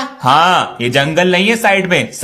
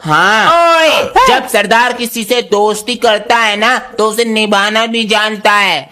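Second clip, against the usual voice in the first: put-on Punjabi accent; 2 semitones higher than usual. Sardar boy, Punjabi speech.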